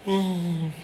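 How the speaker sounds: high, soft whimpering hum; mock crying. Pastor imitating host crying after second service, mock whimper. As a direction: imitate a tearful moan. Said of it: "nangis lagi dia".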